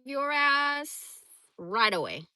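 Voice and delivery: drawn-out retold realization; retold resolve. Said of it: "I was like".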